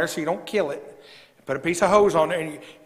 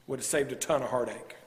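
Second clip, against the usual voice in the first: breathy whisper, no voice; conspiratorial whispered aside; 6 semitones lower, 9 dB quieter than usual. Real, not acted. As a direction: lean in and whisper it. Aside after doozies.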